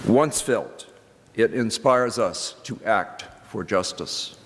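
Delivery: a touch of formal reading voice. Acted. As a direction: read it like scripture to the congregation. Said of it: "And he writes".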